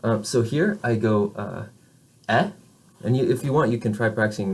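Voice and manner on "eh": "eh" as in English met; short open "eh"; open vowel. Shown as a demonstration. Teacher modelling for students, open "eh". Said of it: "my mouth is more open".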